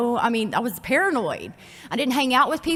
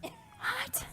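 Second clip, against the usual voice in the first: mock surprise; 15 dB quieter than usual. Mock surprise at own confession.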